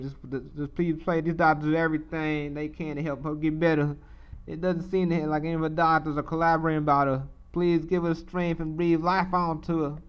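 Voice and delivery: lightly voiced Southern Black accent; southern black english. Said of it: "he's a Southern black accent".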